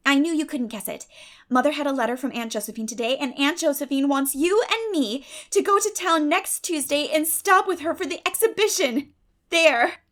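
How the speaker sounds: spring the surprise; girl triumphantly springing news on her friend. Acted. Diana reveals her news.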